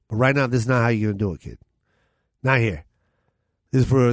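a hint of a stern mob booker; mobster voice. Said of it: "I'm doing, like, a mobster voice right now".

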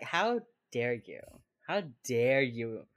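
slow, deliberate mock outrage; mock indignation. Wife retold scolding a visitor, slow mock indignation. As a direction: spell out the offence word by word.

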